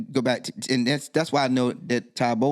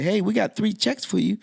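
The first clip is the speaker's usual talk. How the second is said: higher cheerful woman's voice; accountant lady; 7 semitones higher than usual. Retold or imitated. Accountant lady telling him about his checks, higher voice. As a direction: voice the accountant lady, bright and high.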